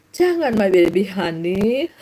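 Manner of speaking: slow, drawn-out playful protest; mock sweet-talk. Preacher answers whoever scolded the laughing, mock coaxing. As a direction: stretch it out teasingly. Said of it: "Bilang itu Pak Hansem".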